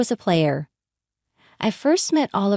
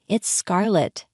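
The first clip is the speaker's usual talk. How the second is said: cheerful; slower than usual. Acted. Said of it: "her cheerful voice saying".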